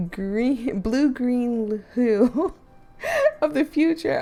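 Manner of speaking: giggling through the words; can barely read for laughing; laughing while reading. Real, not acted. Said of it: "I'm laughing 'cause her handwriting".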